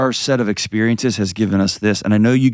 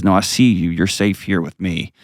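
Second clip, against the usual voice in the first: reassuring quote. Retold or imitated. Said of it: "steps into it and says".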